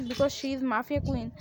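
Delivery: very slow, word by word; slow mocking. Son mocking his wife's mafia queen title, very slow. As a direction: spell it out sarcastically.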